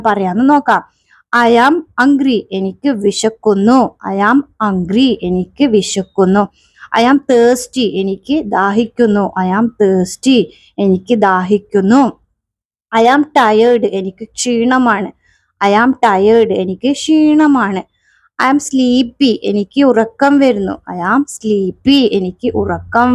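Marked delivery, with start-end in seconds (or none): 1.3-2.4 slow drill. Shown as a demonstration. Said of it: "teacher drilling phrase". 20.9-22.0 slow drill. Shown as a demonstration. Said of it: "teacher drilling phrase".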